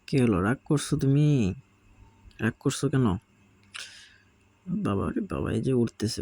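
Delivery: cooing at a sulky parrot chick; coaxing pet talk. Real, not acted. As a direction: sweet-talk the sulking bird onto your hand. Coaxing pet bird Piku.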